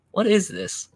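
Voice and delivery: high-pitched mock waitress question; puzzled waitress. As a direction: imitate a baffled waitress in a high voice. Waitress's question repeated, exaggerated.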